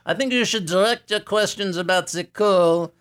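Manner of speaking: put-on Santa with a light French accent. Santa tells the radio host of Paris in a light French accent. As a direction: play Père Noël with a hint of French. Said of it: "Was it your French accent?".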